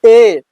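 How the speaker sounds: "ए" said alone as a clear vowel; letter-sound demo. Shown as a demonstration. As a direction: sound out "ए" for learners. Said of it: "क्या पढ़ेंगे?".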